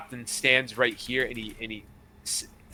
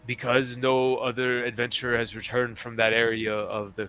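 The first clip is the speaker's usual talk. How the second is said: measured, slightly lowered captain voice; retired pirate captain; 4 dB louder than usual. Acted. Captain briefing adventurers on a missing scroll, measured character voice. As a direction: confide the job with pauses, sinking at phrase ends.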